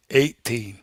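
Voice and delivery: slow, drawn-out mock disbelief; growing anger. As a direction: imitate a factory man getting worked up, slowly. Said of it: "He's starting to get angry now".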